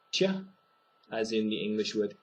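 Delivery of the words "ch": ť said like the ch in tune; soft t sound. Shown as a demonstration. Teacher isolating the ť sound. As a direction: soften ť toward ch. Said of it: "so that would be".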